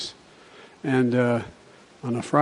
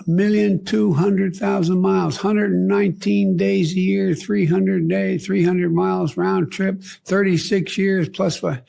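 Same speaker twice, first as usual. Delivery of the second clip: slow tally; 6 semitones higher, 5 dB louder, slower than usual. Retold or imitated. Conductor reciting tally slowly.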